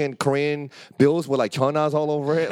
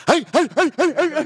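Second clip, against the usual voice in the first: high, louder laughing hey hey; mock angry old man yelling; 12 semitones higher, 5 dB louder, faster than usual. Old landlord chasing them to the car, laughing high yell. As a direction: chase them down, calling out. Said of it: "fucking chasing us".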